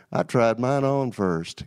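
slow imitated Southern punchline; Southern accent. Best man ribbing the groom before the wedding, imitated Southern accent. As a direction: deliver the joke slowly, in mock Southern. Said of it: "in his true Southern accent".

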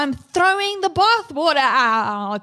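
high, stretched-out protest with a laugh; emphatic declaration. Real, not acted. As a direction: proclaim it high, drawing out the words. Mother declares she gives up guilt.

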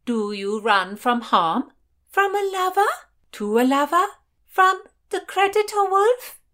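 high, loud, rising questions; eager questioning. A narrator's reading. Ladies quiz the runaway on deck, high excited questioning. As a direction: press with one loud question after another.

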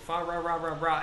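"Fa ra ra ra ra" with every L turned to R; mimicked mispronounced L's. Retelling a scene from Christmas Story, mimicking L's said as R's. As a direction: imitate the movie's carol, saying "ra" for "la". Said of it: "they can't pronounce their L's".

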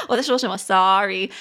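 quick words, breaking into a laugh; laughing at herself. Real, not acted. Teacher catching her own verbal slip, laughing.

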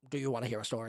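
low, soft, slumped question; subdued, slightly dejected offer. Acted. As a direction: ask it again with the creepy smile dropped. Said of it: "He stops smiling and sort of slouches".

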